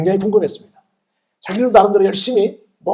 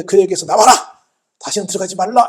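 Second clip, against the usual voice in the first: louder mock order to a spirit; forceful command; 2 semitones higher, 4 dB louder than usual. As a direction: drive it out with a firm, raised voice. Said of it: "귀신을 향해서 명령하시잖아요". (목소리 높여 명령하듯이)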